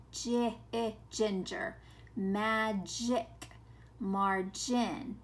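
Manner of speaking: J and short I said alone, then GINGER, MAGIC, MARGIN; sounded out. Shown as a demonstration. Teacher points out the short I sound, sounded out. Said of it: "making the short I sound".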